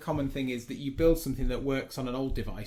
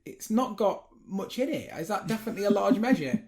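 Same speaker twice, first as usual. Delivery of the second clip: customer quote; 9 semitones higher, 4 dB louder than usual. Retold or imitated. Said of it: "And he goes".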